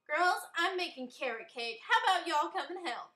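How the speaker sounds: loud, high call upstairs; shouting up the stairs. A narrator's reading. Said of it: "shouted up the stairs".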